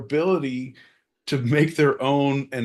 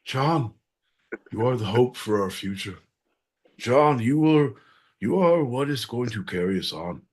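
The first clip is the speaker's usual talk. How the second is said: milk a fake emotional goodbye to John; mock tearful farewell; 7 semitones lower than usual. Farewell to John, mock tearful and hushed.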